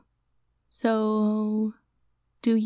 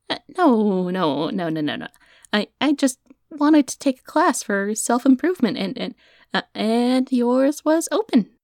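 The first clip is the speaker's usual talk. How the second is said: flustered denial; 4 semitones higher, 3 dB louder than usual. Acted. Denying, caught out.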